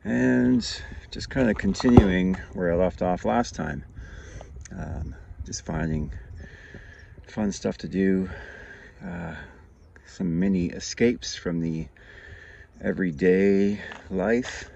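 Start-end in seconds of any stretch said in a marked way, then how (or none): 4.7-14.7 out of breath from biking; breathless, pausing between phrases; gasping for air. Real, not acted. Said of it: "Sorry, I'm out of breath".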